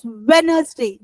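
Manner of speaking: firm, falling Wednesday, D dropped; Wednesday with silent D. Shown as a demonstration. Teacher shows pupils how to pronounce it, silent D in Wednesday. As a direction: model Wednesday without the D. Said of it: "the day like this".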